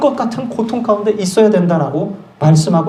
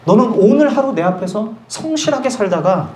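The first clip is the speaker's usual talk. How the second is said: normal talking voice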